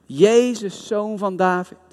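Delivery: licht naspelend roepen, hoger ingezet; geroepen. Retold or imitated. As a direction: roep het uit, maar ingehouden. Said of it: "keihard geschreeuwd". (bedelaar roept met gematigde stem naar Jezus)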